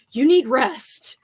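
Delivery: slow, firm but kind; gentle parental. Real, not acted. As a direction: tuck them in with words. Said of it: "acting like a parent".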